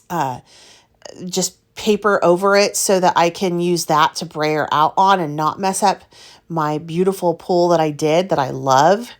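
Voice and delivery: ordinary talk, nothing marked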